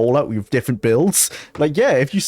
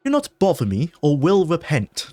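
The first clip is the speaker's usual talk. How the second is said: slightly higher, hammed-up threat; amateur character acting; 4 semitones higher than usual. Game character warning the player off, amateurishly acted. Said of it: "depths of my voice acting skills".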